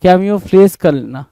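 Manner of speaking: "camouflage करना" said very slowly, each syllable drawn out; slow careful pronunciation. Shown as a demonstration. Teacher to students, drawing out the word slowly. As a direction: spell out "camouflage" with your mouth, syllable by syllable. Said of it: "camouflage क्या होता है?".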